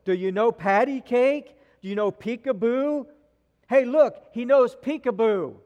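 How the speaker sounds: a preacher imitating a drunk old man hollering at a baby; mock drunken shout across the room; retold drunk shouting. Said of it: "began shouting across from the room".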